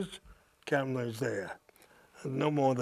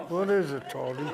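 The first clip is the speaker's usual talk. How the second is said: "What is it" pushed out with lips held still, half laughing; mock ventriloquist mumble of "What is it, Tony?"; through unmoving lips; 3 semitones higher than usual. Actor imitates Marilyn asking through frozen lips, laughing. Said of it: "then she won't move her lips".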